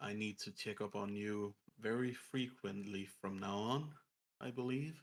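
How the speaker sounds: low, quiet voice throughout. A game narrator voices a figure who will check on a player; low voice. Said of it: "Just in a low voice".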